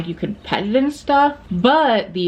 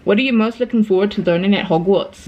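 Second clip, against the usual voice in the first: lightly put-on British reading voice; put-on British accent. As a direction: quiz question in an assumed British accent. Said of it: "I don't know why I'm doing an accent".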